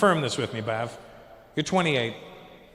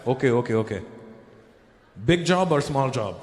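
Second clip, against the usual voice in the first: put-on businesslike Indian-accented father; Indian dad; 6 semitones lower than usual. Dad quizzing five-year-old before bathroom, Indian accent. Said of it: "He goes".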